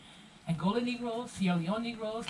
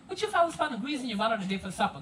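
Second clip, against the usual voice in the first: Gullah dialect. Shown as a demonstration. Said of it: "In Gullah, you hear us say".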